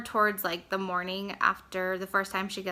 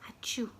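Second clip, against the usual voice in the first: fake sneeze; 7 dB quieter than usual. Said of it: "do their fake sneezes".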